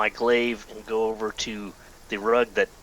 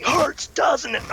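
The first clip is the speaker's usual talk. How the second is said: slow, much higher and louder roaring taunt; lion roar; 3 dB louder, slower than usual. Acted. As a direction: roar "Hurts, doesn't it?" like a lion. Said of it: "make my voice loud as a lion roaring".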